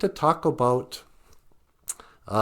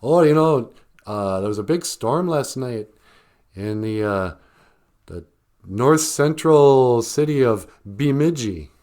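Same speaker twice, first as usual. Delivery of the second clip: a lightly voiced newscaster, louder; mock newscaster; 2 semitones higher, 5 dB louder than usual. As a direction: imitate a city newscaster getting it wrong. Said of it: "don't know how to pronounce it".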